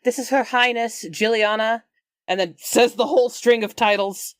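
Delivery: loud announcing. Acted. Seneschal presenting Her Highness to the patients, loud announcing. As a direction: step forward and announce it loudly.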